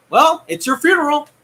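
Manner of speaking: sing-song warning "it's your funeral". Real, not acted. Repeats line with different tune.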